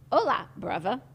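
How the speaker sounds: mock Spanish-British greeting; Spanish hello, then British bruvva. Continuing the accent joke, mock Spanish and British.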